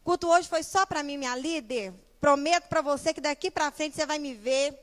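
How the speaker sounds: loud, emphatic parody of big promises; gushing mock church member. Member pledging to her leader after service, mock fervent. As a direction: imitate an overeager convert, pushing the volume. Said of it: "Vocês lembram dessa frase".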